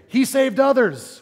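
a preacher voicing the mockers' sneer; jeering mock. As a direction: throw it up at him like the scoffing crowd. Mocking crowd at the cross.

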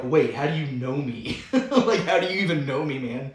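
surprised. Retold or imitated. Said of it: "Nathanael was probably like".

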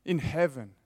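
loud, slow pleading to the Father; preacher voicing Jesus' loud prayer; impassioned prayer. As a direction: plead "Make known my worth" slowly. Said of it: "his prayer to the Father is".

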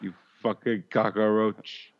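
slow, hammed-up Cuban accent; mock Cuban accent. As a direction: spit it out like Scarface in a Cuban accent. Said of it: "Pacino did a great Cuban".

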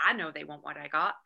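self-assured inner boast; confident. Retold or imitated. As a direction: sure of your own worth. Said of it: "I had all this confidence".

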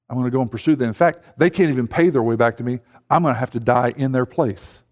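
a low, solemn voice of God. Retold or imitated. God speaking to the church, low and solemn. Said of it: "God goes".

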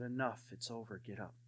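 very quiet, low and unhurried; the Lord's voice. Retold or imitated. Retelling what God said to him, hushed and low. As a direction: drop far down in pitch and volume. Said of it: "And the Lord said".

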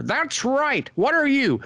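put-on high, slow, grand old studio big shot; Sam Raimi's old-timey director voice. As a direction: lord it over them like a pompous old Hollywood director. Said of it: "old-timey Hollywood director voice".

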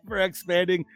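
slowish, careful mock Aussie reading; Kano's Australian accent. Host retries Brody's review, careful wobbly Aussie accent. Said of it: "I was trying to, like, mimic Kano lines".

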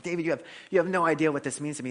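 quick, mildly excited quote; retold excitement. Man handed a Bible he longed for, imitated excitement. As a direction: imitate someone thrilled, words tumbling out. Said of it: "so excited to get a Bible".

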